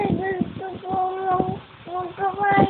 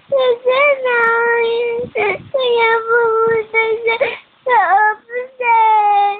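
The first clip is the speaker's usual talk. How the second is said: tearful; 3 semitones higher, 5 dB louder than usual. Real, not acted. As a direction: explain loudly through tears. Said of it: "Ba't ka naaawa kay Daddy?".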